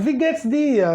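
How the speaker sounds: Wie geht's dir run together at everyday speed; natural-speed greeting. Shown as a demonstration. Teacher giving the everyday contracted form, natural pace. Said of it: "você tá ouvindo a palavra".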